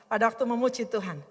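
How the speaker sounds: ordinary talk, nothing marked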